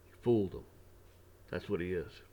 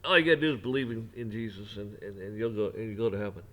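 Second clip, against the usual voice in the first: devil's sweet lie; 5 dB louder than usual. Retold or imitated. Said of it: "the devil's gonna lie to you and say".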